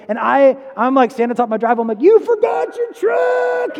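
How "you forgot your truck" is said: put-on high, drawn-out shout in a sudden redneck accent; redneck holler. Homeowner to fleeing thief from his driveway, redneck holler. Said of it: "I got this, like, accent all of a sudden".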